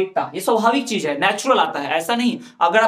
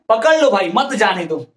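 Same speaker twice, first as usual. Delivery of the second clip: louder पकड़ लो भाई, then मत जाने दो apart; pause after पकड़ लो भाई; 5 dB louder than usual. Shown as a demonstration. Teacher spelling out the second meaning, firm break before मत. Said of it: "अब क्या बोल रहे हैं".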